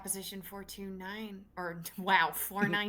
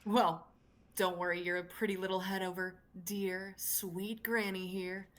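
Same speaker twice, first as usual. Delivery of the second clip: put-on gruff old lady. Granny talking down to a worried young girl, gruff old lady voice. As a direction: play a gruff old woman, understated. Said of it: "doing the gruff old lady voice".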